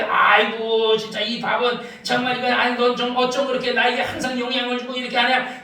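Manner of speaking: low, softened praise, lightly acted; mock blessing. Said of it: "밥을 축복해".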